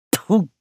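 a disgusted spitting "тьфу"; exasperated mate spits in disgust; spitting tfu. A narrator's reading. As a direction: spit the word out in disgust. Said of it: "плюнул Старпом".

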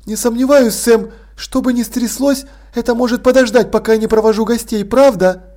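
a gracious hostess, gently amused; poised lady Sibyl. Acted. Sibyl puts Vimes off.

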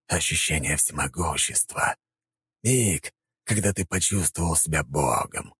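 slow, insinuating villain voice; tempting villain. Acted. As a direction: tempt him with power. Puppeteer tempts emperor.

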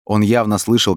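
ordinary delivery, nothing marked

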